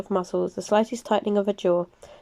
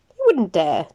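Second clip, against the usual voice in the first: short disagreement; 4 dB louder, slower than usual. Acted. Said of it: "Julius disagreed shortly".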